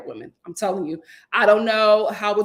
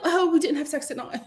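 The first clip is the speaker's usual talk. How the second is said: mock confession; 5 semitones higher than usual. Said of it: "Stop telling them".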